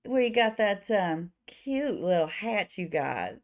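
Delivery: lightly Southern, flirty barkeep; sugary Southern flirting; Louisa. Acted. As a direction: coax them with a slight Southern accent. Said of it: "I don't know why she's slightly Southern".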